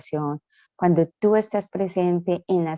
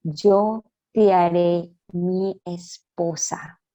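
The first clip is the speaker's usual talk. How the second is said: solemn divine promise; much slower than usual. Retold or imitated. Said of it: "me dijo".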